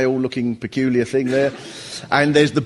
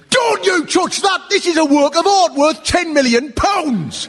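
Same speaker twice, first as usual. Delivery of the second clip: guard shouting. Retold or imitated. Security guard yelling at the comic for touching the glass cabinet, high shout. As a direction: bellow it like a furious security guard. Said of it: "He went".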